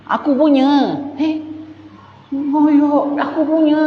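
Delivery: mock stubborn squatter; stubborn claimant. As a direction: bark it's mine, mine. Claimant insists the land is his.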